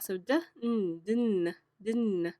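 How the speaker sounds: D, N, din, din sounded letter by letter; sounding out words. Shown as a demonstration. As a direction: blend "din, din" slowly from D and N. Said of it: "get ready for this interesting blend".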